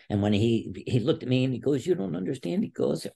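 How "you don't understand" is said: high, imploring imitation of a coach; retold tearful plea. Wrestler imitating his coach begging him, tearful. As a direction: plead in a high-pitched mock-emotional voice. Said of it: "he's got tears in his eyes".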